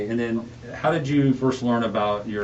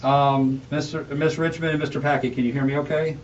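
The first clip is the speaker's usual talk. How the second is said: speaking through a face mask; words muffled by a mask over the mouth; 2 semitones higher than usual. Real, not acted. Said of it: "I apologize for the muffled sound. I'm wearing a mask".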